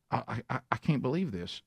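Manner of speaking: soft, stammering mock choked-up fan; lightly acted, hushed disbelief; retold emotional fan. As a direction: imitate an overwhelmed fan, quietly stumbling to start. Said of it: "And he gets emotional".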